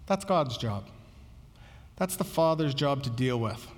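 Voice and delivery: gently imitating a teacher who never raises his voice; calm redirection. Jesus answering the apostles, calmly and low. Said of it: "this is really what Jesus is saying".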